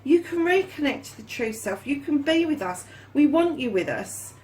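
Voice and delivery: a hint of the cards themselves talking; voicing the cups. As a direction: speak for the cups as a welcoming family. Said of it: "those cups are saying".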